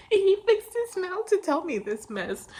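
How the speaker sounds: high, squealed mock indignation; loud-ish, high-pitched disbelief, played for effect; indignant freak-out, acted. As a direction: keep up the hammed-up outraged squeal. Continues freak-out to the pilots.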